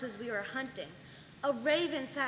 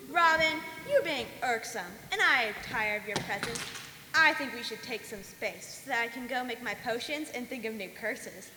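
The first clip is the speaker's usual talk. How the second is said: haughty. Acted. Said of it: "followed by a wicked cackle".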